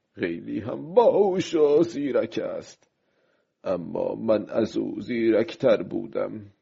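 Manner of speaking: lightly voiced fisherman rallying himself; a touch of defiant self-talk; resolute old fisherman.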